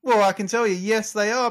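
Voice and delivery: ordinary delivery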